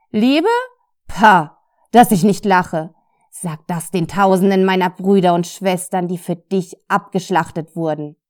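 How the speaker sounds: loud, scornful accusation; reproachful. Acted. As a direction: throw her words back at her. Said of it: "antwortete die männliche Stimme vorwurfsvoll".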